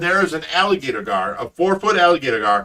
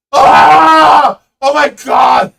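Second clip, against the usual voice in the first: loud, high shocked shout; dad seeing the fish on his son's foot; panicked yell; 11 semitones higher, 14 dB louder, much slower than usual. Retold or imitated. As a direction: yell in sudden horror. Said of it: "I'm like".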